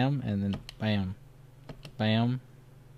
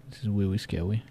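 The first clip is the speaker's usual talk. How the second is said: mock baby voice; 3 semitones lower, 7 dB quieter than usual. Baby-talk fear.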